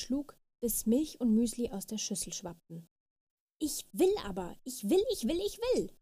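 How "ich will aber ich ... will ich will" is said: climbing higher on every ich will, ending in a shriek; a child's tantrum that keeps building; from whiny demand to top-of-the-lungs scream; escalating screamed tantrum. A narrator's reading. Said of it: "schrie die kleine Fee".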